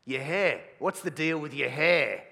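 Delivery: imitating an older man's blunt question; older guy voice. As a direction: grill him about the hair. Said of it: "they'll say something like this".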